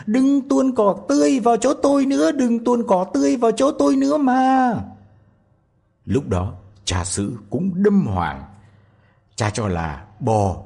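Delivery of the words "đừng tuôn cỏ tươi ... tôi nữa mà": very high, loud tiny-voice shout; shouting again. A narrator's reading. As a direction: yell out from inside the cow. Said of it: "Tí Hon lại la lên".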